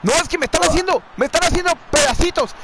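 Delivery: agitated protest. Real, not acted. Gamer complains he's being torn to pieces, agitated. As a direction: protest quickly, rising into repeated cries of no.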